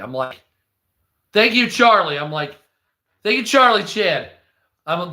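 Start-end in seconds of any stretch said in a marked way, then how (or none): 1.3-2.2 loud, higher mock gratitude; sarcastic thanks. To the realtor bragging about his spending, loud sarcastic thanks. 3.2-4.3 loud, higher mock gratitude with a jab; sarcastic thanks. To the realtor again, loud sarcastic thanks.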